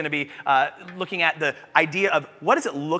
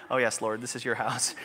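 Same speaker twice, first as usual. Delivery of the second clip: much lower and softer, humbled; humbled surrender; 7 semitones lower, 11 dB quieter than usual. Retold or imitated. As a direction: yield quietly to the Lord. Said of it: "And I said".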